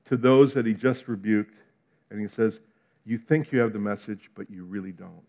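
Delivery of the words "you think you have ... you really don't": softer and lower, fading to near nothing; fading rebuke. Retold or imitated. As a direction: let the rebuke die away. Quoting Jesus softly, fading away.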